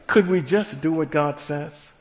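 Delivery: says the call again through a laugh; light chuckle on the rerun; laughing repeat. Shown as a demonstration. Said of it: "That's how we talk".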